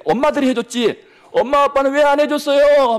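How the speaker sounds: put-on high, loud voice of a tearful little boy; crying child. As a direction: play the son close to tears. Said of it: "막 울더라고요". (울먹이는 어린 아들 목소리)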